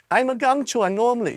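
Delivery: put-on high, loud bratty girl shout. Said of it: "she shouted".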